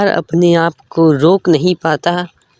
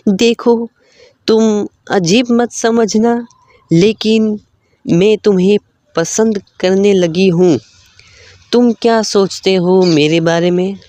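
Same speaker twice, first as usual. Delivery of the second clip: put-on higher girlish voice, a little hesitant; young woman confessing; 4 semitones higher than usual. Lakshmi confessing her love to the prince, higher shy voice. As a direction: confess your liking, a bit higher and shy.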